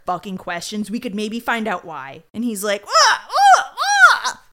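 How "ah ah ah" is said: high, loud unhinged cackle; mock laugh. Suspect laughing at detectives, high unhinged cackle. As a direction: laugh like a madman.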